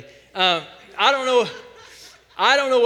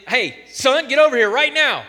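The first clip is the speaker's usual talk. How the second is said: put-on loud, higher parent call to a child; calling the kid over; 5 semitones higher, 7 dB louder than usual. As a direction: summon the son sharply from across the house. Mom calling son to check lice.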